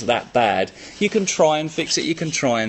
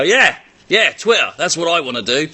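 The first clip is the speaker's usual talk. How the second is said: a hint of an eager viewer, louder; mock eager viewer; 3 semitones higher, 5 dB louder than usual. Viewer agreeing to share on Twitter, mock eager. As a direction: play it up as a keen fan. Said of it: "You go".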